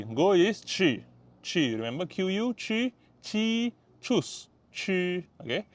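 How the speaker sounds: ordinary delivery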